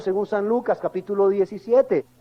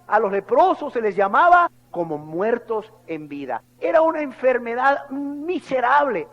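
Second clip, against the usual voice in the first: ordinary delivery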